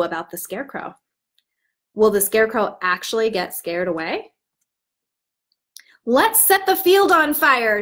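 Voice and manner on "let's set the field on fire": bold call, higher and louder; rally the flock, a mild shout; crow shouting. Acted. Crow urges the others to burn the field, raised voice. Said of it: "shouted a crow".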